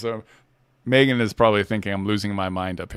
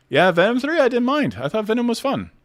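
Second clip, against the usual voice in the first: put-on voice; 12 semitones higher than usual.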